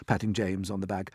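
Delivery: plain reading voice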